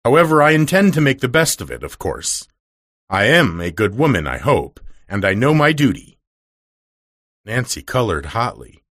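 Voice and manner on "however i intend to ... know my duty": a hint of a self-righteous mistress; severe mistress. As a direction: declare your duty with stiff pride. Mistress states her duty.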